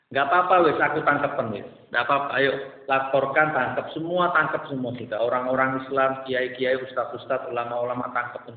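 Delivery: bitter go-ahead; defiant dare. Real, not acted. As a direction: dare them to come get you. Defiant dare to arrest him.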